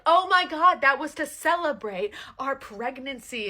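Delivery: high, loud, slow exasperated protest; hammed-up wife, indignant and stretched out; mock defensive wife. Wife defending the picnic to her husband, high mock outrage.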